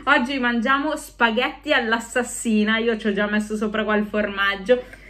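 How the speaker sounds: speaking behind lace mask; masked halloween costume speech; through a face mask. Real, not acted. Seen 0: Open-weave skull mask covers her whole face, mouth included, throughout.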